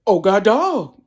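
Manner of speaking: loud, startled exclamation; startled outcry. Retold or imitated. Seeing dead mother in the doorway, startled. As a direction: blurt it out in alarm.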